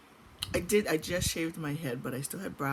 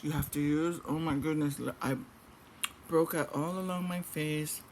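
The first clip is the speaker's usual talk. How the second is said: talking while chewing; words round a mouthful; mouth full. Real, not acted. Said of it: "forgive me for talking with my mouth full".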